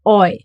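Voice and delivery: "oi" as one gliding vowel; a clear, separate "oi"; German EU sound. Shown as a demonstration. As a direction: say "oi", the German eu diphthong. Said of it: "it gets pronounced as".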